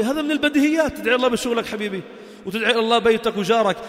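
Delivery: usual speaking voice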